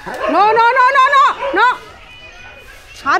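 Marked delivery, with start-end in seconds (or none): 0.1-1.8 loud, high repeated no to a dog; stern scolding. Real, not acted. Owner scolding her dog Tiger, loud stern no. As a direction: shout the dog down, no after no.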